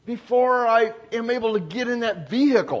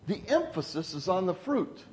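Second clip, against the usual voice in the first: quiet emphasis; 9 dB quieter than usual. Real, not acted. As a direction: drop the voice and let the point settle. Quiet take of repeated point.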